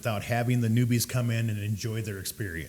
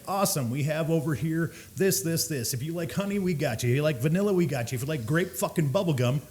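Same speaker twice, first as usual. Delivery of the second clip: slightly higher, patter-like pitch; usual sales spiel; 4 semitones higher than usual. Retold or imitated. Bartender offering sweet cigars to a customer, eager spiel. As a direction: rattle off options in a light retold sales voice. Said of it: "I do my usual spiel".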